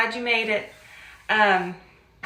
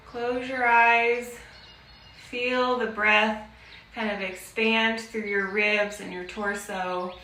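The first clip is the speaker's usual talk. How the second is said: guided breathing. Real, not acted. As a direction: guide them gently through each breath, unhurried. Leads breathing exercise.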